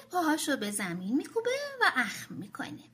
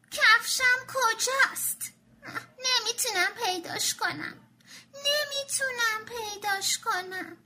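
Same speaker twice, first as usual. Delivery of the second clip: crying shout; 8 semitones higher, slower than usual. Acted. Tommy yelling to his mother about his shoe, wailing. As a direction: wail it like a frustrated little kid.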